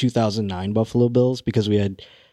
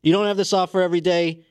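mock meltdown; 5 semitones higher than usual. Milo raging at Nickelodeon execs who passed, hammed-up fury. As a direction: throw a fake tantrum at the network. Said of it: "Have a full-on meltdown right".

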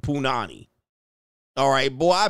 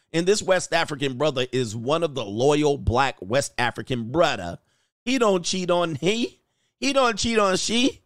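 put-on West African accent; amateur impression of a West African accent; mock West African accent. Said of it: "how to do the African accent".

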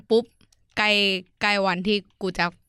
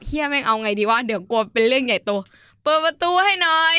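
higher, laughing through it; laughing panic; 5 semitones higher, 4 dB louder than usual. Retold or imitated. Locked outside at night, begging parents while laughing. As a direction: giggle while begging to be let in.

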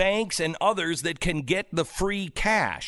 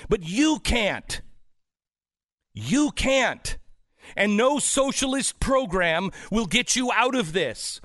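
emphatic, raised-pitch tirade; yelling; 5 semitones higher than usual. Real, not acted. Host telling listeners no socialist program will save them, yelling. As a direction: hammer each point home in a real rant. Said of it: "I'm yelling at everyone else".

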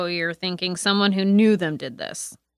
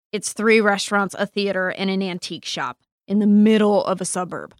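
louder, incredulous protest; exasperated outburst; 3 semitones higher, 6 dB louder than usual. Acted. Player character protesting to the detective, exasperated and louder. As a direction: push back in disbelief at the idea.

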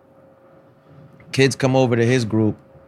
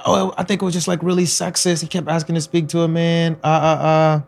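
mocking gossip voice; 4 semitones higher than usual. Mocking the TMZ lady.

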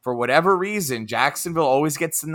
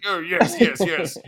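higher, playful British assent; mock British accent; 4 semitones higher, slower than usual. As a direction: join in with a fake British accent. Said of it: "talking in a slight British accent".

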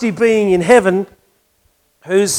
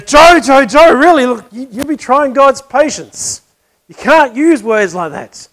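higher, louder, slow warning; pitched-up, loud minister telling Joe off; stern rebuke; 5 semitones higher, 6 dB louder than usual. Retold or imitated. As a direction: scold your friend for swearing again.

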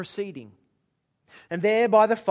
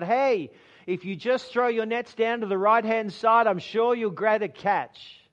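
calling out; 4 semitones higher, 3 dB louder than usual. Acted. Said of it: "he calls out".

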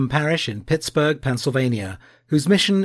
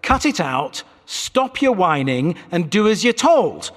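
stern rebuke. Acted. God rebukes whining Jeremiah.

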